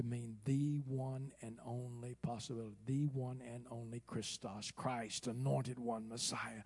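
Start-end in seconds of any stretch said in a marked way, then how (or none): 0.5-4.7 single out "the" with deliberate stress; emphatic THE. Shown as a demonstration. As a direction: lean on "the" as a long "thee". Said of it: "he used the strongest definite article".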